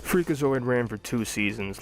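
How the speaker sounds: ordinary delivery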